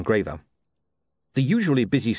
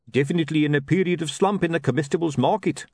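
higher-pitched trader sunk in gloom; gloomy sausage seller; 7 semitones higher than usual. A narrator's reading. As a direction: moan about business as a street hawker. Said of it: "too sunk in gloom to notice".

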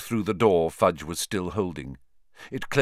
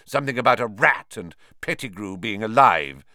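spat; 4 dB louder than usual. Acted. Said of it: "spat Snape".

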